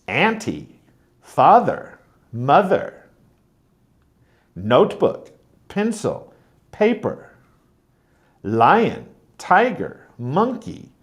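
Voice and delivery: word list from "auntie" to "monkey", each strong then weak; first-syllable stress. Shown as a demonstration. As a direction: punch the first syllable of "auntie, father, mother" and every word after, dropping the second. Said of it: "very common stress pattern".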